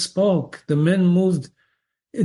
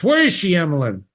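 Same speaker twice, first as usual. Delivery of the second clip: harsh doctor; 3 semitones higher, faster than usual. Acted. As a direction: bark the question at the housekeeper. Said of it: "The doctor's voice was harsh".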